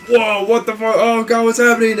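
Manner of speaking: high-pitched imitated alarm; retold panicky outcry; mock panic. Acted woman trapped by rising water.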